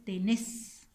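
"tenés" slow, weight on nés; stress on last syllable. Shown as a demonstration. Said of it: "aquí hay una aguda".

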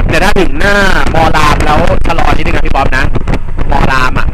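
shouting over the wind in a moving car; calling out over wind. Real, not acted. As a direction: call forward to the driver, loud and high.

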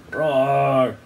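mild imitated lion roar; storyteller's short roar; roaring like a zoo animal. A narrator's reading. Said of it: "woken up the animals".

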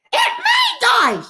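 slow, high-pitched gasp of disbelief; shocked. Real, not acted. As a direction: let the news land slowly, in disbelief. Shock at Aunt May's death.

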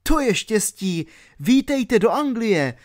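high, elated greeting; delighted welcome. A narrator's reading. Albert welcomes Christabella's betrothed to England, delighted welcome.

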